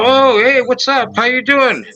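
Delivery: mock eager greeting; bright mock reply. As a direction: greet back with eager surprise. Retold own reply.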